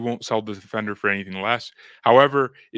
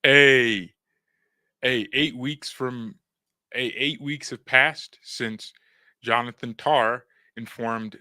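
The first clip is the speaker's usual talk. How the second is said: put-on British accent; 3 dB louder, slower than usual. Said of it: "I just have to say it in a British accent".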